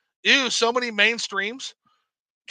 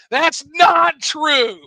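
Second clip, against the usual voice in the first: very slow, higher, stretched "not"; drawn-out whine; 5 semitones higher, 4 dB louder, much slower than usual. Real, not acted. Denying chat claim, second take.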